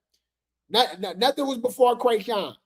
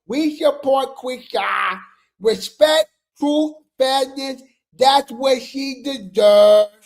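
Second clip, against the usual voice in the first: slow, solemn slogan reading; mock fan voice; slower than usual. Shown as a demonstration. Reading the fans' demands to viewers, in a slow mock-solemn voice. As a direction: chant it like a fan pledge. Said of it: "My bad".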